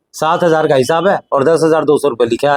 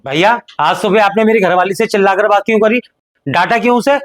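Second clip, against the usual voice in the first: angry confrontation; 5 semitones higher than usual. Acted. Younger brother confronts elder angrily.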